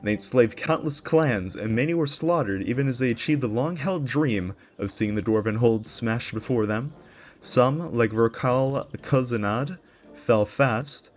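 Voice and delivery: epic trailer-style storytelling voice; dramatic lore narration. Acted. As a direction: read it like the opening of a fantasy saga. Reads the lore intro aloud.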